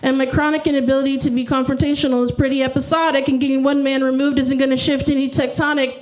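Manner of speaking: fast rhyming run with held final word; mock-earnest spoken-word recital; parody slam poetry. Shown as a demonstration. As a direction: rattle the rhymes, pause before the last word. Performs parody poem.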